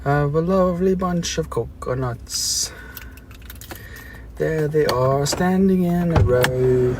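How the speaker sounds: light British singsong; British accent. Pretend. Streamer singing the coconut song in a mild British accent. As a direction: croon it in a hint of British accent. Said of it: "The British comes out".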